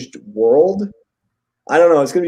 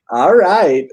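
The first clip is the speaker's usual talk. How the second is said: louder, higher mock celebration; imitated delight; 4 semitones higher, 6 dB louder than usual. Retelling the widower's grinning reaction to the news, in mock delight. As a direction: cheer it as if thrilled, imitating. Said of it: "he has a big smile on his face".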